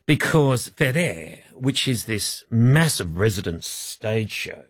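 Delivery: lightly put-on Italian accent; unhurried mock Italian accent. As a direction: tell it slowly with a hint of Italian. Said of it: "are you doing an Italian accent".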